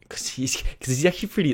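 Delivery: hushed, half-whispered gossip; whispered aside. Real, not acted. Vlogger letting viewers in on a secret, whispering. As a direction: drop to a secretive whisper about the boss.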